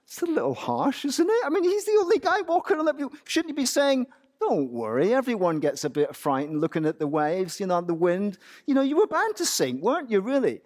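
imagined objection. Pretend. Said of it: "We might think".

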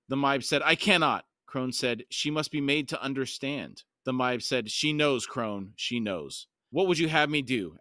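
measured, dramatic audiobook reading; story narration. A narrator's reading. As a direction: read it as solemn fantasy narration. Reads the novel aloud.

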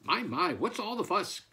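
high, lilting hen voice; fussy hen. A narrator's reading. First hen roused by shouting farmer, high mild query.

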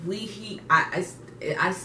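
halting false starts from nerves; hesitant, stuck on "I"; nervous stuttering. Real, not acted. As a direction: stammer over the first words, restarting. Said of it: "I'm stuttering 'cause I'm like".

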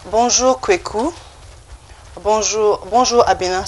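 "Bonjour" in careful French, pauses between greetings; pronunciation model. Shown as a demonstration. French teacher to learners who repeat after her, pronunciation model. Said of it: "the accent, how I am pronouncing".

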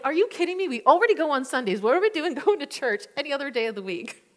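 imitating his outrage, high and loud; husband protesting a weekday church group; mock angry husband. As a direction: play the exasperated husband with a half laugh. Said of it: "He was so mad at me".

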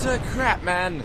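put-on high, accidental touch of Jamaican accent; a hint of Jamaican, pitched high; slightly Jamaican. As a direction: slip briefly into a light Jamaican lilt. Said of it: "slightly flipped into Jamaican".

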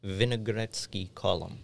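slow, heavy Russian accent on the name. Real, not acted. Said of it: "I don't know why I said that in a Russian accent".

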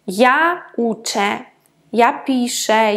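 уче and піше slowly, final nasal reduced to plain E. Shown as a demonstration. Teacher showing first-person endings, уче and піше with plain final E. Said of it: "вимовляється як просто е".

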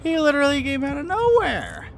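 very high, loud squealed protest; incredulous shriek. Real, not acted. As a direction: hold it way up high, dropping only on "nowhere". Repeats complaint in high shriek.

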